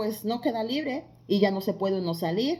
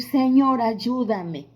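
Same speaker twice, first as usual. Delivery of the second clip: loud retold plea for help; pleading cry; 2 semitones higher, 5 dB louder, much slower than usual. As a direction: call out hard, then let it drop.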